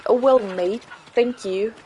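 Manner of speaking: a light British accent, casual thanks; a hint of British English, cheerful. Shown as a demonstration. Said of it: "British English".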